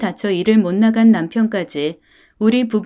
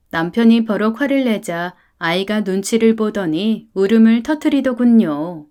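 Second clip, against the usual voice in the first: plain reading voice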